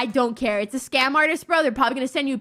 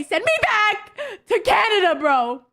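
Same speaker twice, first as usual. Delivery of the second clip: laughing plea; 5 semitones higher, slower than usual. Real, not acted. Laughing plea about Canada.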